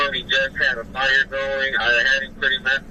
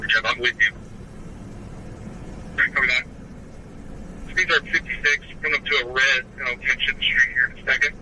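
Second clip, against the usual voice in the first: radio chatter from a patrol car; officer calling in over the radio; police radio. Real, not acted. Officer reporting over scanner.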